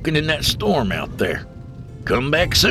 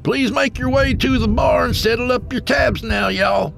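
bartender calling last orders, high and loud; Southern bartender hollering to the room; hollered announcement; 3 dB louder than usual. A narrator's reading. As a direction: holler across the bar in a raised, high-pitched voice. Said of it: "The bartender hollered to the dozen".

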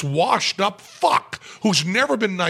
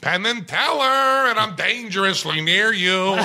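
Jerry Lewis voice; 4 semitones higher than usual. Retold or imitated. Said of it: "Jerry goes".

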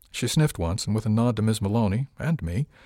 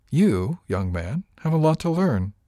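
put-on stern older woman; 5 semitones higher, 4 dB louder than usual. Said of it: "A woman's voice crackled through his rage".

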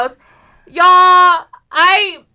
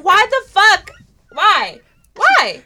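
loud, pitched-up exasperated cry; exasperated outburst; 4 semitones higher, 6 dB louder, slower than usual. Retold or imitated. Woman rants about critters in her house, exasperated outburst. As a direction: protest it in mock despair, louder.

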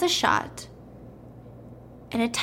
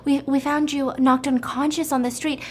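lightly put-on higher female voice; a hint of a woman's voice, pitched up; 4 semitones higher than usual. Lottery lady to man found unconscious, lightly voiced female. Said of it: "And the female voice says".

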